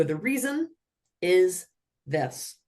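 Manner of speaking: slow mechanical cadence; robot voice. Shown as a demonstration. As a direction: call it out like a robot. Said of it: "I'm saying it like a robot with this cadence".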